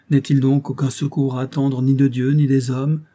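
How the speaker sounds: a touch of anguish in the voice; anguished plea. Acted. Mathilda begs for help from God or men, mildly anguished. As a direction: plead to heaven, wringing hands. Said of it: "en se tordant les mains avec angoisse".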